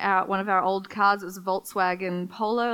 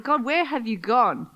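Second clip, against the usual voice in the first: pleading prayer. Retold or imitated. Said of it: "It's like".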